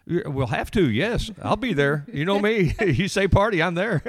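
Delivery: high, loud and gleeful; bubbling over about a party; excited. Real, not acted.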